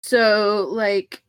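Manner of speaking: slow, lazy stoner drawl; lightly voiced stoner. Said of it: "I'm gonna drop out of stoner voice".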